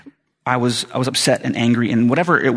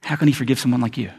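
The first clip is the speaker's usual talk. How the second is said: accusing devil. Acted. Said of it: "the devil lies to you again and says".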